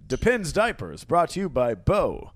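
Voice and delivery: drawn-out commercial announcer voice; mock ad read. Host jokingly announcing a diaper sponsor, mock ad read. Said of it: "And now an ad".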